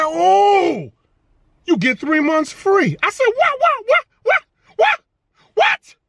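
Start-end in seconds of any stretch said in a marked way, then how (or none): 0.0-3.0 imitating manager. Quoting manager's offer. 3.3-6.0 rising, much higher squeals of what; shocked disbelief. Retold or imitated. Shocked at free months.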